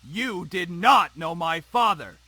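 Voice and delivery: enraged. Acted. Father telling daughter she didn't know his father, enraged. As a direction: punch out each word in rage. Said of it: "A flash of rage crossed his face".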